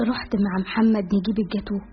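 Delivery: ordinary delivery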